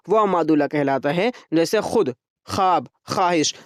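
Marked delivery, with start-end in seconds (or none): 2.5-3.5 ख्वाब, ख्वाहिश said as khaab, khaahish; silent wav. Shown as a demonstration. Teacher giving silent-wav examples, ख्वाब, ख्वाहिश said without the w. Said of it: "लेकिन पढ़ा ना जाए".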